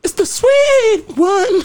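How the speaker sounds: high belted jingle shout. Pretend. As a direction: belt it out like a jingle. Belting a commercial jingle.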